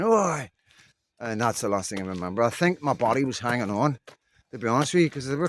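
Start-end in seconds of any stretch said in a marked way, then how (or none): 0.0-0.5 sharp shouted Oi, higher and louder; retold shout. Passer-by shouting at attackers to stop, a mild retold yell. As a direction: call out to stop the beating. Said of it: "and them saying".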